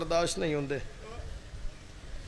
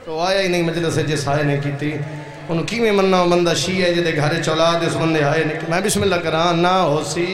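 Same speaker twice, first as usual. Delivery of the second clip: louder, driving pulpit delivery; full-force preaching; 8 dB louder than usual. Acted. Preacher rails at the majlis, loud and forceful. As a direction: hammer it home to the mourners.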